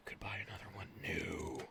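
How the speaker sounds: soft unvoiced whisper to himself; whispered aside. Real, not acted. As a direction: murmur the temptation under your breath.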